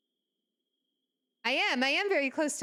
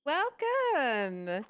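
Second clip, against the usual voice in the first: cute anime streamer; 7 semitones higher, much slower than usual. Real, not acted. Streamer greeting raiders excitedly.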